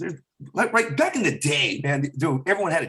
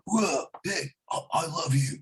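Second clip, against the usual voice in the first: Keanu Reeves impression; 2 semitones higher than usual. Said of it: "get Keanu Reeves in a different way".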